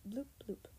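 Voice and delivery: soft imitated phone alert; phone bleep. A narrator's reading. Narrator mimicking Allie's phone alert, soft bleeps. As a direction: voice two small electronic bloops, softly. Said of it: "sounded with a single bleep".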